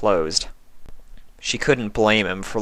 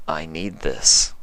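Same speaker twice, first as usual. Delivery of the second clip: lightly hungry, low and slow; 3 semitones lower, slower than usual. Acted. Hungry changeling line.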